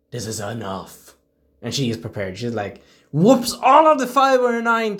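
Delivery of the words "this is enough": stern warning. Retold or imitated. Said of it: "she was like".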